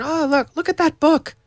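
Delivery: high, eager call to look; excited pointing. Pretend. Teacher imagining a book across the room, excited call. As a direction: point at something far off, thrilled.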